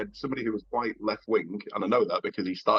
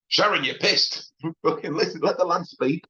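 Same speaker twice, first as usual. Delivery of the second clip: exasperated husband; 7 semitones higher than usual. Retold or imitated. Husband telling drunk wife to let lad speak, exasperated.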